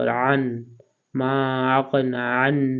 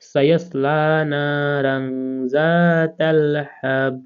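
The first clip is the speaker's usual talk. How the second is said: melodic recitation; 2 semitones higher, much slower than usual. Shown as a demonstration. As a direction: sing the verse out slowly. Joined recitation of verse. (ধীর সুরে তেলাওয়াত)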